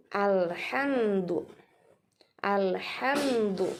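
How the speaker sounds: "alhamdu" slow, m neither held long nor cut; correct mim. Shown as a demonstration. Teacher gives the right way, slow smooth "alhamdu". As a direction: glide "alhamdu" through m into du. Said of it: "Tapi yang betul adalah".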